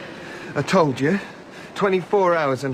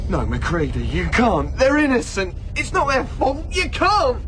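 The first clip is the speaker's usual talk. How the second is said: desperate plea; 4 semitones higher than usual. Acted. Pleading for dogs' lives.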